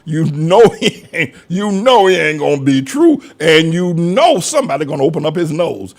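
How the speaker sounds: a hint of old North Carolina country speech, laughing; North Carolina talk. Preacher recalling old Carolina talk, mild country accent. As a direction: lightly imitate how folks talked down in North Carolina. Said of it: "that's how they used to talk down in North Carolina".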